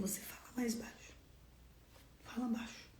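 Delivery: soft, controlled reply. Acted. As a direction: answer the yeller in a hushed voice. Models a quiet reply to yelling.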